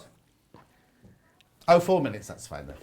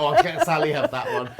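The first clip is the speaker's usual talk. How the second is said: quoting herself; 6 dB louder than usual. Retold or imitated. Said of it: "I went".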